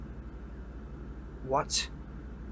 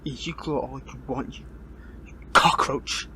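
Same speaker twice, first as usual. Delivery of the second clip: angry insult; 5 dB louder than usual. Acted. Captive hero insulting the villain, angry and loud.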